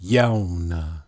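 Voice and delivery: Yauna said as "yow-na"; guttural pronunciation. Shown as a demonstration. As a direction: open Yauna with a drawn "yow". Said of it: "Look at the next one".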